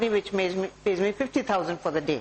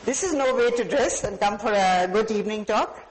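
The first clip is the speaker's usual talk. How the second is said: harsh put-down. Shown as a demonstration. Speaker demos harmful speech on a guest, mock rebuke. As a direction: scold him like a disappointed host. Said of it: "what harm it can do".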